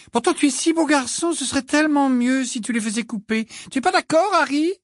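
high, scolding mother voice; motherly voice. A narrator's reading. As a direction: nag gently like a mum. Mrs Weasley voix de personnage. (mère qui gronde, voix aiguë)

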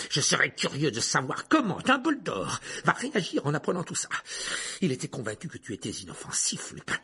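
high, loud mocking opening with scornful laughs; sneering villain. Teacher mocks the tame werewolf, sneering. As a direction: jeer at him, dragging the last words. Voices Rogue sneering at Lupin.

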